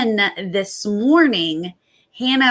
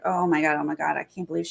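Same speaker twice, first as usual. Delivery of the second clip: nervous; 2 semitones lower, 7 dB quieter, faster than usual. Retold or imitated. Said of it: "starts to, like, sort of, like, get nervous".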